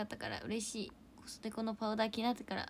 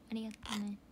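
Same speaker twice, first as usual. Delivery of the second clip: whispered thank-you; soft whisper; 4 dB quieter than usual. Real, not acted. Streamer whispering thanks to a viewer. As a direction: drop into a breathy whisper.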